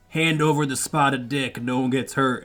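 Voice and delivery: slow, mock-gruff American cowboy; lightly imitating a friend's cowboy voice. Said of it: "He's very good at the cowboy voice".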